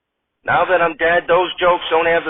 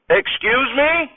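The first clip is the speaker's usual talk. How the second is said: shocked disbelief; 8 semitones higher, slower than usual. Acted. Hartman shocked.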